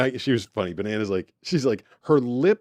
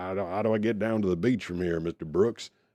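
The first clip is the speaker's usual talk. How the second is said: put-on drawled Southern accent; 4 semitones lower, 5 dB quieter than usual. Imitating a Southern guy asking Brooks the way to the beach, Southern drawl. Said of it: "a Southern guy with this drawl".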